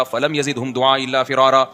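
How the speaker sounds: slow, level measured chant; Quran recitation. Acted. Preacher quoting Noah's prayer to God, measured recitation. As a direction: recite steadily on an even pitch.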